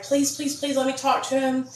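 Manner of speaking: high, soft mock pleading; retold tearful begging. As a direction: imitate desperate begging in a small voice. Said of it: "I started crying hysterically".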